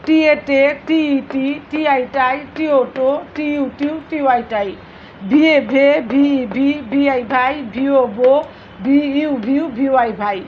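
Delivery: evenly measured spelling chant, dropping at the end of each set; syllable drill recitation. Shown as a demonstration. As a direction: recite letters then syllable, like a classroom drill.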